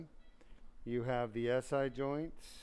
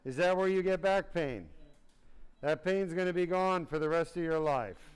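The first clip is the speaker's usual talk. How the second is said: loud encouragement; 4 semitones higher, 5 dB louder than usual. Real, not acted. Encourages patient on table.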